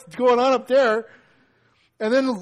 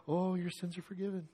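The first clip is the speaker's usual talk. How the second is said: mock blessing; 2 semitones lower, 13 dB quieter than usual. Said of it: "if I said that to you".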